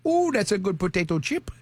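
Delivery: attempted Cajun accent. Host tries Cajun though he can't, mock Cajun accent. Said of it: "You can't do Cajun?".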